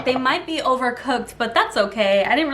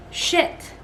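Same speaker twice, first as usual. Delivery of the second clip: breathy whispered swear; whispered curse; 6 semitones higher, 3 dB quieter than usual. Real, not acted. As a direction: curse under your breath. Muffins stuck, under breath.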